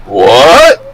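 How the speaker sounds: retold incredulous "what", swooping upward; astonished reaction. Recounting the gift shop surprise to listeners, astonished. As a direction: draw it out in mock disbelief.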